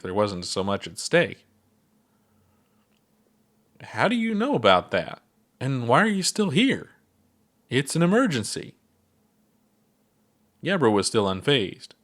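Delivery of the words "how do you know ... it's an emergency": high, pressing questions; urgent. Acted. Ponder urging the laid-back Gabbro to act, high and urgent. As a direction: push him, there's no time.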